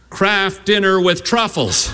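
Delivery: put-on slow, earnest boy's correction; lightly voiced proud son, drawn out. Son proudly correcting his sister about dinner, slow and earnest. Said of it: "And Sam said".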